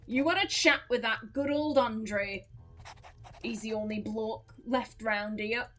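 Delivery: put-on lightly accented farmer, rambling along; a put-on accent for a French farmer; farmer's put-on accent. Farmer chatting about the priest, put-on accent. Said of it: "given a, Fen-, a French farmer this accent".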